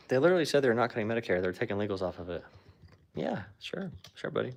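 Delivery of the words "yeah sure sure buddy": sarcastic. Real, not acted. Sarcastic dismissal of claim.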